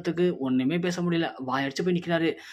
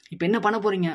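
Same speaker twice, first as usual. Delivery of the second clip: higher-pitched mock yell, held short of a shout; retold angry yell; 4 semitones higher, 3 dB louder than usual. Ponni confronting the family over the video, in a retold yell. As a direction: act out an indignant demand with raised pitch. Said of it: "அப்படின்னு சொல்லி பொன்னி கத்துறாங்க".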